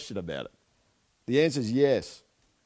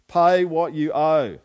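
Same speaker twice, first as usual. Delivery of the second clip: loud, slow and menacing, word by word; slow angry demand; 3 semitones higher, 8 dB louder, slower than usual. Acted. Servant choking his debtor, slow loud furious demand. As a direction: growl it out while throttling him. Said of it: "he's saying to him while that's happening".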